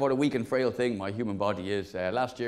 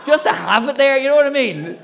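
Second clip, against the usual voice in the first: laughing shout; 10 semitones higher, 10 dB louder than usual. Real, not acted. Laughing at own joke.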